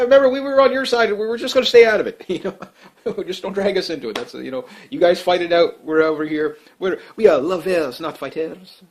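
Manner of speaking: put-on half-hearted French accent, pleading to stay out; bad French accent. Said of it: "ah, my bad French accent".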